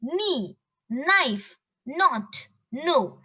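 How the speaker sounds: each of "knee, knife, not, no" begun on n; silent K. Shown as a demonstration. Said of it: "K is the silent word".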